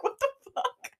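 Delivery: high-pitched mock bafflement; retold disbelief. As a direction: squeak it out, amused and incredulous. Acts out amazed reaction to yelling.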